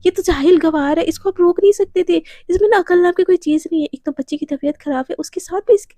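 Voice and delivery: scolding mother. Acted. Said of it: "गुस्से में ना राधिका को डाँटने लगती है".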